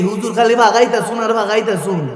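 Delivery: imitated Sylheti speech; Sylheti dialect. Preacher recalling a visit to Sylhet, imitated Sylheti dialect. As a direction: mimic a local speaking Sylheti dialect. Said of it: "তারপর আবার সিলেটে গেছি".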